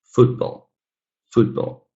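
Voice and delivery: FOOT-ball, both parts fairly equal; first-syllable stress. Shown as a demonstration. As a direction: lean a little on the front of football. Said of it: "stress falls a little bit more".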